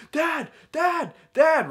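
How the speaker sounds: high-pitched imitated call for Dad; mock shout. Frightened teenager calls his dad from the road, mock shout. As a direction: act out a teenager shouting for help. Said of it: "So I shout, I'm like".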